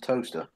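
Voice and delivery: Towcester said exactly as "toaster"; the British reading of Towcester, as toaster. Shown as a demonstration. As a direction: say the town's name like the kitchen toaster. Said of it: "it's spelled Towcester".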